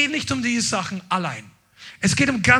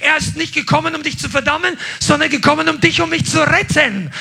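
forceful preaching; 3 semitones higher, 3 dB louder than usual. Acted. Preacher rising to full force.

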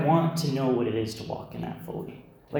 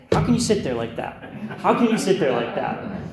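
higher, louder impassioned preacher; imitating an excited preacher's raised voice; Laverne getting excited; 4 semitones higher, 6 dB louder than usual. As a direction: call it out to the congregation, fired up. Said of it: "he would get so excited, he'd say".

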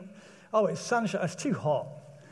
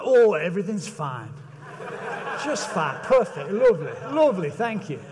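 fake cheerful politeness.

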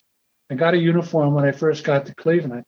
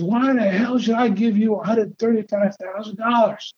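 higher, gruff demanding owner voice; Charlie Finley's raspy drawl; 6 semitones higher than usual. Retold or imitated. The team owner challenges the rookie on the phone, in a higher mock-raspy drawl. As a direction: imitate the raspy owner grilling him on the phone. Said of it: "southern drawl I heard on the phone, raspy voice".

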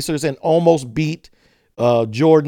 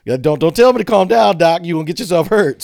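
louder, heated warning; getting heated; 4 dB louder than usual. Real, not acted. Telling the coach off, getting heated and louder. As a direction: let the heat rise as you warn him. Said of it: "See, I'm getting heated now".

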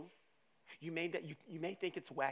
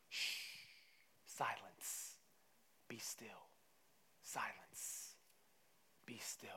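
low, soft hush to still the waves; slow, quiet, spaced-out commands; 7 semitones lower, 9 dB quieter, slower than usual. Acted. Jesus to the wind and waves, hushed command.

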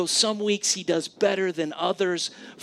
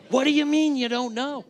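higher, louder exasperated question; frustrated dad; 10 semitones higher, 4 dB louder than usual. Retold or imitated. Father losing patience with his son's answer, exasperated and raised. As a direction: push back in disbelief.

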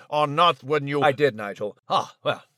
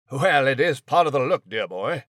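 a hint of a condescending old gent; Nigel the posh mouse. Mouse airily explains his tail to the announcer, faintly smug. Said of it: "it's a look, all right".

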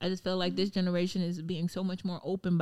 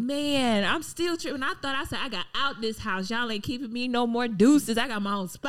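higher, cocky voice bragging about moving out; mock defiant brag; 3 semitones higher than usual. Young woman bragging she left her parents' house, cocky. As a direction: strut it like you finally left home. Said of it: "I be like".

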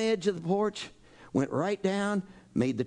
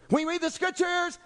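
mock temple know-it-all; 11 semitones higher than usual. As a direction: play the smug objector correcting Jesus. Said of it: "I'd go up to Jesus and say".

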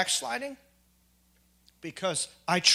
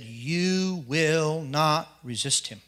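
slow, weighty divine command; solemn voice of God; much slower than usual. Retold or imitated. God commands him not to fight the big man, slow and solemn. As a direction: lay down God's word slowly and gravely. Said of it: "And he said".

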